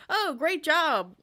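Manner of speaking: high, slow, loud congratulation; a hint of a hearty cowboy cheering, drawn out; oblivious cowboy robot. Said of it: "He's like".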